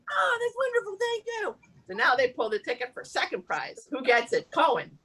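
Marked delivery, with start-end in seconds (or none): 0.1-1.5 high, gushing acted gratitude; delighted thanks. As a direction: play the grateful winner. Acted winner thanks for Cadillac.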